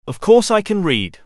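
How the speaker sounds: offended. A narrator's reading. Offended at being asked.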